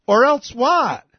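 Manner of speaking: a high, loud "or else what"; loud challenge. Real, not acted. Mocking challenge.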